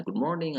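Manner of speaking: "good morning" lifted on morning, then falling; contrasted intonation. Shown as a demonstration. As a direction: raise "morning" and drop the end. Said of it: "tidak, tidak sama ya intonasinya".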